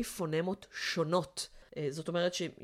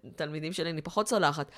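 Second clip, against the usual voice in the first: normal talking voice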